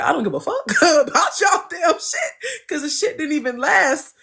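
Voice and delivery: high, laughing dismissal; laughing retort. Retold or imitated. To her accusers, a high laughing brush-off. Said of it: "I was like".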